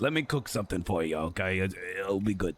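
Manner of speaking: lightly voiced fussing grandmother; doting grandma urging food; Greek grandma. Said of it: "Like every Greek grandma I've ever met".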